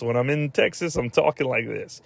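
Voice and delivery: badly faked Texas Southern accent. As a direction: put on a joke Texas accent. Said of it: "they pull the Southern accent when they need to".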